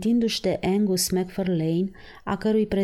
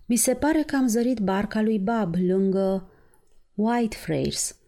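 glum, slowing on the last word; sad and sullen; 2 semitones higher than usual. Acted. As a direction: mutter it gloomily. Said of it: "cu aerul lui trist și ursuz". (trist și ursuz, tărăgănat la final)

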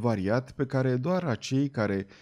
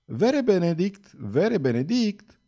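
higher, slow call across the deck; 7 semitones higher, slower than usual. A narrator's reading. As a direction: call out to her cousin, drawn out. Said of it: "Și strigând îl chemă". (strigă chemându-l, rar și mai sus)

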